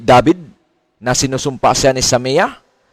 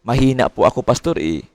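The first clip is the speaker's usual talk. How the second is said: light mock whine, each plea ending on a falling "Pastor"; half-hearted pleading believer; whiny church member. Church member listing excuses to the pastor, mild mock whine. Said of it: "Yun ang laging sinasabi".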